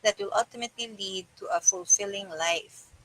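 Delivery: measured, even book-reading voice; calm narrator reading a self-help book; audiobook reading. Acted. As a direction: read the chapter to your listeners steadily. Reads a self-help book aloud.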